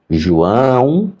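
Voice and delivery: drawn-out name, rising at the end; mock loud calling. Teacher calls the deaf pupil, mock loud and drawn out. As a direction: imitate loud calling without really shouting. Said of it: "ela falou bem alto".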